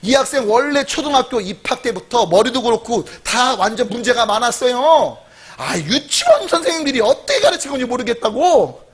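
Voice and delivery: lightly mocked huffy teacher; playful, exasperated complaint; annoyed elementary teacher. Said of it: "누가 화가 나요?".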